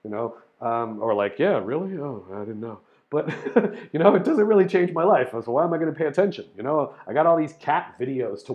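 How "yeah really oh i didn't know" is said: lightly acted lack of interest; mild indifference. Voicing someone unmoved by gnome theories, mildly indifferent.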